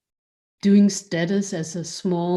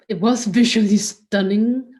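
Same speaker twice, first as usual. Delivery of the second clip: laughing; 3 semitones higher, 6 dB louder than usual. Real, not acted. Guest recalls favourite exhibition.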